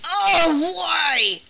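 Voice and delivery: high, loud mock wail; overreacting child. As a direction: imitate a kid's hammed-up lament. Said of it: "I'm just in here overreacting".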